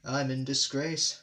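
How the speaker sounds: slow pathetic moan. Acted. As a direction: whine it pitifully. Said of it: "Gordon went on pathetically".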